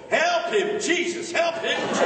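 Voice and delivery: high, loud cry from the back pew; church lady yelling. Retold or imitated. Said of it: "Some lady in the back of the church yelled".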